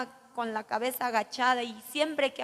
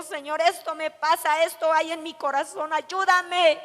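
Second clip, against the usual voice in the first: prayer to God; 3 semitones higher, 6 dB louder than usual. Retold or imitated. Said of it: "voy a Dios y le digo".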